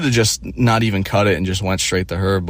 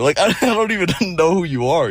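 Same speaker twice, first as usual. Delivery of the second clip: laughing through the words, fast; real amused laughter; 9 semitones higher, faster than usual. Real, not acted. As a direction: giggle it out quickly. Laughing at the situation.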